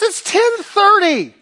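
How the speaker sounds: high, slow, deadpan reminder; flat wife rebuke. Retold or imitated. Wife tells her panicking husband the time, deadpan. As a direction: point out the hour in a high, drawn-out voice. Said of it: "She goes".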